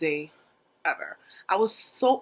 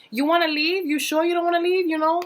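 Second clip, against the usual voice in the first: high, louder doting grandma; granny asks her grandchild, much higher and louder; sweet granny voice; 10 semitones higher, 7 dB louder than usual. Retold or imitated. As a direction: play the granny offering tea sweetly.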